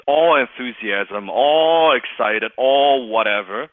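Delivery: loud, long-stretched ALL; mock enthusiasm. Shown as a demonstration. Coach mocking salespeople who are all excited, exaggerated. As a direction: stretch it out big, mocking the hype.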